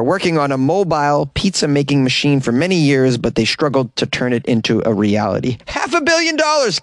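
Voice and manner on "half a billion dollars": incredulous. Real, not acted. Exclaiming the sum again.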